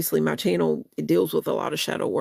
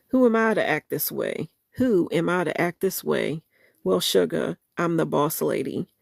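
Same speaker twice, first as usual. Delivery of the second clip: soulful spoken-word recital of a love song; spoken-word lyric reading. Acted. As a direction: read the song words with feeling, half-performed. Reads song lyrics aloud.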